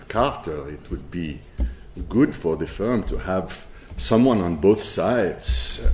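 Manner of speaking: a light, self-mocking Israeli accent, slowing at the end; quoting a colleague in a put-on Israeli accent, unhurried. Speaker imitates Israeli lawyer Yoel advising the firm, light Israeli accent. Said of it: "I'll stop with my terrible Israeli accent".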